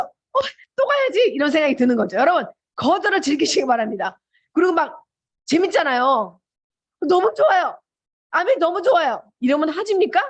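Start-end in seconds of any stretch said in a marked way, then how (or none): 0.0-1.3 high-pitched, drawn-out thrilled cry; acted excitement. Recruiter fired up to go back out, hammed-up excitement. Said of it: "흥분을 하면서". 7.1-9.2 higher-pitched gushing, imitated; mock enthusiasm. Prospect gushing over the business, mock enthusiasm.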